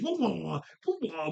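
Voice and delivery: playful mock martial-arts "wah" noises; imitated kick sounds. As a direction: act out flying kicks with little wahs. Mimicking kick noises of a fighter.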